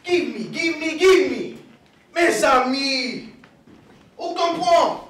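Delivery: fired-up immigrant dad voice; father's scolding. Acted. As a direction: rattle off an exasperated dad's tirade. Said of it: "is what Papi, my father, would say".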